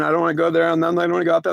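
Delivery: high mock whimpering plea; scared, crying boy. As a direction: imitate a frightened little boy begging. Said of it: "scared and crying like a little boy".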